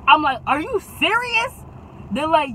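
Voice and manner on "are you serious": high-pitched disbelieving question; incredulous. Retold or imitated. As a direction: pitch leaps up in mock disbelief. Retold disbelief at friends.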